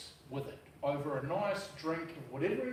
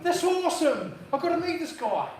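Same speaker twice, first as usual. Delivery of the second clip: high, loud, eager exclamation; retold excitement; 8 semitones higher, 7 dB louder than usual. Hearing about hillbilly Trevor, excited to meet him. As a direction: burst out keen, pitch right up.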